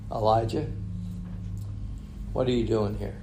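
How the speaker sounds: soft, gentle voice of God calling Elijah; small still voice. Acted. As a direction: speak it softly, like a still small voice. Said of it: "this small, still voice".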